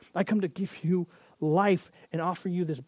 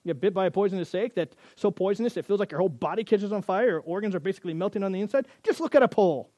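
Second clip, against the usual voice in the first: sarcastic disbelief. Retold or imitated. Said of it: "Makes sense to everyone?".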